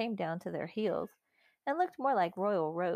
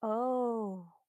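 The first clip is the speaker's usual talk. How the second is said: sudden realisation; 4 semitones higher than usual. A narrator's reading. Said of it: "said Susan suddenly".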